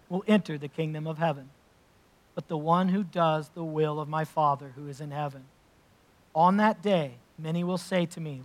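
measured, solemn reading of Scripture. Acted. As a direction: read it aloud to the congregation with weight. Reads the Sermon on the Mount.

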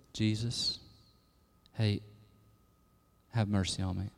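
very soft, low, timid murmur; meek, unexcited plea. Shown as a demonstration. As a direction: call out as if afraid to bother anyone. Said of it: "No, it's like ... in the emphatic tone".

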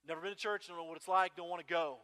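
put-on loud, stubborn teen pushback; imitating a defiant teenager; defiant kid. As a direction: refuse it flat out, loud. Kid refusing, voiced in story.

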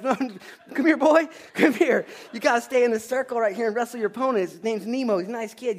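put-on high, loud laughing call to a boy who ran off; a wrestling coach half-laughing as he waves the boy back. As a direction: coax the scared kid back into the circle, loudly. Coach calling a runaway kid back.

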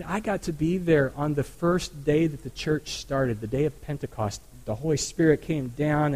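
lightly voiced elderly woman; a hint of an old woman looking back; old lady voice. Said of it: "I can just hear Mary in her old lady voice saying".

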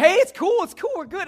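high, loud and upbeat; over-eager reassurance. Retold or imitated. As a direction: rush to let them off the hook. Loudly reassuring the embarrassed caller.

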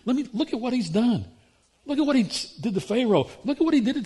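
impassioned preacher telling them off; fiery rebuke. Pretend. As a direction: shake them out of self-pity. Imagined rebuke to the whiners.

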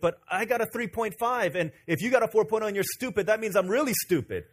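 a classmate realizing he's the stupid one; incredulous. Retold or imitated. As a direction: point out the irony. Albert deflated by comparison.

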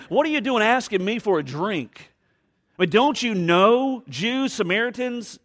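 acted astonished protest; incredulous. Acting the woman's incredulous challenge.

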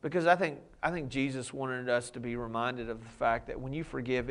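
normal talking voice

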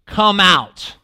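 loud, drawn-out call of the name; retold shout. Jesus calling dead Lazarus out of the tomb, loud call. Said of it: "He shouts".

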